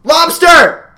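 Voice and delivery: high, loud random outburst; retold screaming. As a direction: yell it out of nowhere. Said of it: "start screaming shit at".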